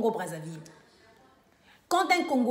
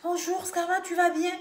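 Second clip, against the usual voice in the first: higher, put-on white French accent; put-on changed accent; 5 semitones higher than usual. Shown as a demonstration. Showing callers how a changed accent would sound on the phone, put-on French accent. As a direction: greet in an affected French accent, pitched up. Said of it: "Lorsque je vais changer l'accent, je vais dire".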